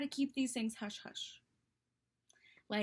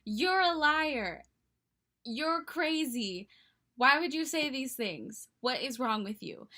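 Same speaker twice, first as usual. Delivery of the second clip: slow, indignant accusations, imitated; mock scream; 4 dB louder than usual. Best friend calling the boy a liar, mock scream. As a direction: play the livid friend, stretching out each charge. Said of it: "she was screaming at him and being like".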